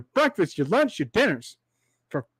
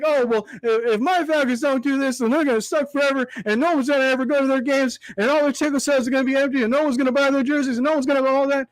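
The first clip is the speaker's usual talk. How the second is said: higher, fast, panicky mock fan rant; mock overdramatic fan; 4 semitones higher, faster than usual. Vlogger mocking desperate Falcons fans to his viewers, hammed-up panicky whine. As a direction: rattle off the doom like a fan who thinks all is lost. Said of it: "all over dramatic and so desperate".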